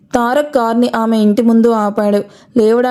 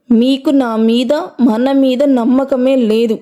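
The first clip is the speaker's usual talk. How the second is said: slow; slower than usual. Acted. Wife accusing husband of distrust.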